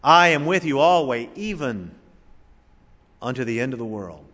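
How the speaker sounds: "even" set off by a pause after it; stress on EVEN. Shown as a demonstration. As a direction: hold the thought on "even" before going on. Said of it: "Emphasize a different word".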